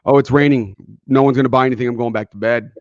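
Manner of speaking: mildly mopey, giving up on the day; gloomy salesperson. Retold or imitated. Salesperson on a rainy morning, a touch defeated. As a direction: sigh it off like a defeatist. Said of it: "One of them goes".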